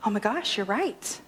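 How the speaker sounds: low, hushed-sounding mild surprise, retold; acted dawning realization; startled realization. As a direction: let it sink in, understated. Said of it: "she was startled and she was like".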